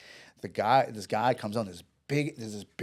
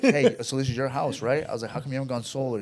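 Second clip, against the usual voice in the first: louder, higher, breezy salesman opener; retold sales pitch; 3 semitones higher, 8 dB louder than usual. Solar salesman to the armed homeowner, bold loud retold pitch. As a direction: act out launching boldly into a pitch. Retelling cheeky pitch to the gunman.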